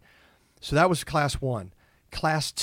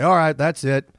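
giving up; 3 semitones higher, 9 dB louder than usual. Retold or imitated. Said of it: "Do you say".

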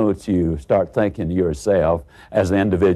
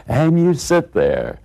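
"and you sit there" stretched slowly, pitched higher; drawn-out waiting; 5 semitones higher than usual. Acted. Third take stretches the wait.

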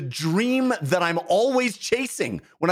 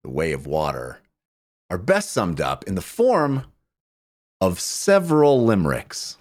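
mock-formal; 10 semitones lower than usual. Mock-formal answer to the host.

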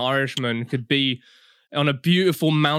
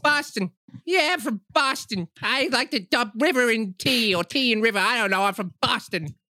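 mock Boston accent; 5 semitones higher than usual. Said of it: "What do Boston people sound like?".

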